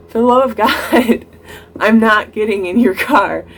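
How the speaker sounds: retold refusal at the end of one's patience; frustrated. Refusing yet another push to get in the date's car, frustrated. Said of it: "I'm getting frustrated again".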